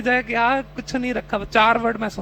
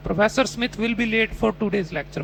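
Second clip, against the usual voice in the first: slow, careful reading of the test sentence; slow model reading; much slower than usual. Shown as a demonstration. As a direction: read the prompt slowly. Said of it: "ये बच्चा हर बार ग्यारह".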